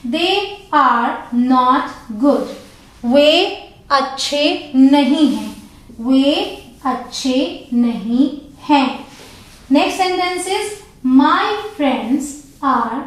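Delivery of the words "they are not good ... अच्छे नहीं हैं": very slow, word by word; slow example read. Shown as a demonstration. Teacher reading example sentence slowly to class. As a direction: spell it out slowly for learners. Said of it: "examples हैं".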